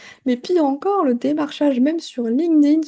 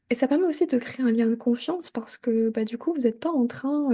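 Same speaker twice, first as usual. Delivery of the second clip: hushed, confiding whisper; whispered aside to her listeners. Real, not acted. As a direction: drop to a whisper as if sharing a secret.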